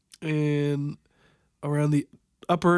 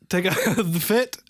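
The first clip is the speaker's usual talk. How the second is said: laughing; 3 semitones higher than usual. Real, not acted. Laughs mid-phrase at product name.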